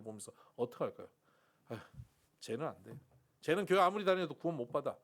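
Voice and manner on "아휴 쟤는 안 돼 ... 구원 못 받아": scornful dismissal. Pretend. Judging outsider believers.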